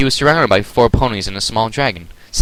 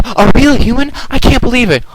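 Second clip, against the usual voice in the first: thrilled; 6 dB louder than usual. Acted. Twilight amazed by human.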